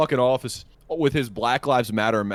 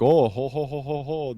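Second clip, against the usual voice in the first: imitated chortle. Imitates Scott's gloating laugh.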